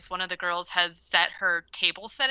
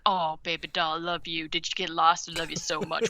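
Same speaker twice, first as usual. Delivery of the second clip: a lightly voiced, syrupy doting grandpa; mock doting grandpa. Grandpa greeting his daughter at the door, mock doting. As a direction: gush over her like a creepy granddad. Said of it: "I do not like the way you just acted that out".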